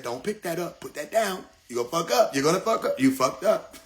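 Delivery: soft nagging conscience; inner voice. Acted. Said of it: "the voice said".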